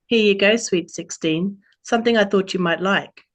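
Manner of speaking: a playful, self-mocking Australian twang; terrible Australian accent. Autumn greets Robin on her birthday, mild Australian accent. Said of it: "terrible Australian accent I'm about to do".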